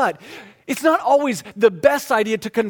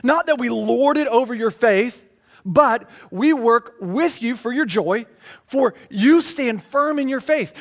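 scripture reading; 3 semitones higher, 3 dB louder than usual. Acted. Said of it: "He said".

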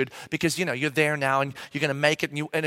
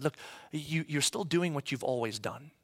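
soft whisper; 2 semitones lower, 10 dB quieter than usual. Retold or imitated. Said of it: "the Spirit of God whispered to me".

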